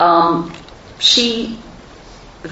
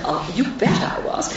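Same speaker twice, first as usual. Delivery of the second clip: soft, higher Newcastle lilt imitating mother; mother's Newcastle accent; 4 semitones higher, 4 dB quieter than usual. Daughter redoing her mother's proud reply in her Newcastle accent. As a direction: put on mum's Geordie accent, softly. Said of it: "I'm sorry, I'll do her accent".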